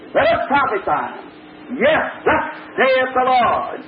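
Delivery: slow, drawn-out pompous proclamation; mock pompous prophet. The preacher mimics the hired prophet Zedekiah, slow and pompous. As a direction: ham up a self-important prophet. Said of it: "one of the great big ones called Zedekiah".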